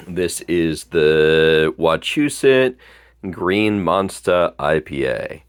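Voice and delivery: slow, careful Boston accent; drawn-out Boston pronunciation of the name. Shown as a demonstration. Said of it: "sorry that my Boston accent isn't quite good enough".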